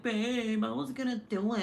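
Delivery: lightly put-on husband voice; mock husband voice. Husband excusing himself to wife, lightly mocked voice. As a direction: imitate a husband making excuses. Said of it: "why his voiceover is like that".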